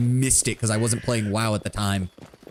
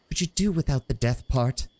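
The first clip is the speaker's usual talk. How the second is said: higher, wry dryad retort; 4 semitones higher than usual. Acted. Dryad Teresa needling Falcos, higher and wry. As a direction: tease him dryly. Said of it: "narrows her eyes".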